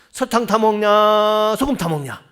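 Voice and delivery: loud, high squabbling shout; couple quarrelling. Retold or imitated. Husband and wife fighting over sugar or salt, loud. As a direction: bicker at full volume. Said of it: "이거 막 싸웠어요".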